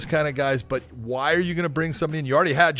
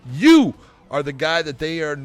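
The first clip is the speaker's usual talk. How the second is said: Jake Paul impression; 4 semitones higher than usual. Mock press conference, Jake taunting Conor in a brash influencer voice. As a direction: hype himself up and taunt the rival. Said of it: "you're gonna play Jake".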